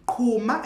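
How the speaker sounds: "Qhuma" with a breathy aspirated click. Shown as a demonstration. Teacher repeats "Qhuma" breathing it out. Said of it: "as if you're breathing it out".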